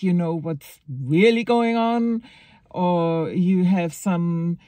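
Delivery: mocking, drawn-out sarcasm; sarcastic. Real, not acted. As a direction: poke fun at the believers. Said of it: "I'm really getting sarcastic now".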